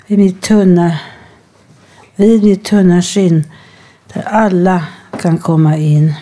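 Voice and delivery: measured poetry recital with pauses between phrases; poem reading. Acted. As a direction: read it line by line, letting each image stand. Continues reading the poem aloud.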